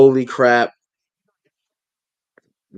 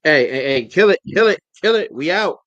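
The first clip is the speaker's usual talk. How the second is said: frantic shouting; 5 semitones higher, 5 dB louder than usual. Real, not acted. Panicked at a bird on screen.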